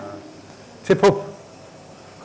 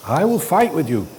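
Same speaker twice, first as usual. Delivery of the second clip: playful mock threat into a big laugh; jokingly threatening, then laughing; 3 semitones higher than usual. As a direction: tease the trainee then burst out laughing.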